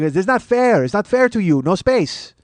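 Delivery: protesting seatmate. Retold or imitated. Passenger protesting on comedian's behalf, indignant seatmate. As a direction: plead the injustice for your neighbor.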